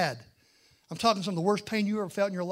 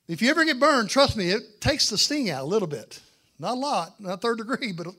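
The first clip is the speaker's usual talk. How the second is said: emphatic aside; 4 semitones higher, 8 dB louder than usual. Real, not acted. Direct advice to the congregation.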